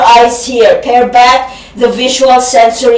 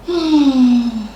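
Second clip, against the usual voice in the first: moan; 6 dB quieter than usual. Shown as a demonstration. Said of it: "Again, sigh, moan, groan".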